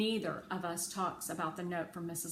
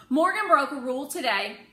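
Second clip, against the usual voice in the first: insistent tattling; 8 semitones higher, 11 dB louder than usual. A narrator's reading. Rose reports rule-breakers.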